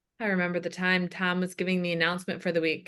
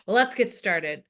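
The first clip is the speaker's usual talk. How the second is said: put-on older heavy-breathing man. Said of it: "The voice of an older, heavy-breathing man".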